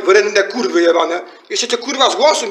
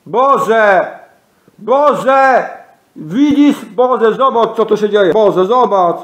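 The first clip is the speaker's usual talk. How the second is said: raised, pleading outcry; calling to God; much slower than usual. Real, not acted. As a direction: cry out for God to look. (wołanie do Boga)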